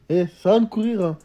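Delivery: mock call-out. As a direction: call after her down the stairwell. Calling after the fleeing girl.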